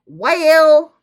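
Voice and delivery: high, loud drawn-out cry; hammed-up rising howl of a word; comic wail. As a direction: wail it out for laughs. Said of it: "the way I said it was funnier".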